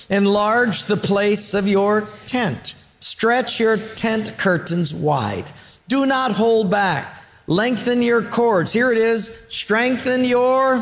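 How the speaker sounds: slow, grand stage reading; theatrical reading voice. Shown as a demonstration. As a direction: read it out like a stage actor. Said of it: "In your best thespian theatrical voice".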